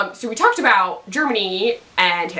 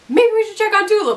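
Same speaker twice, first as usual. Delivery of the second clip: "Maybe we should check on Tulip" said higher and louder, pressing the hint; Cassidy pressing a hint on Jesse, higher and more insistent; pointed hinting; 10 semitones higher, 4 dB louder, faster than usual. Retold or imitated. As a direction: push the hint harder, higher. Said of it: "like, hinting and hinting".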